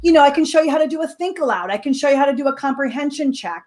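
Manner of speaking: gentle, slightly softened offer; very gently. Retold or imitated. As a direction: offer help tactfully, without pressing. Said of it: "she very gently said".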